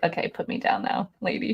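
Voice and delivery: a fed-up cat asking to be set down, breathy; voicing the cat. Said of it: "She's like".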